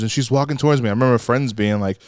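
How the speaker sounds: usual speaking voice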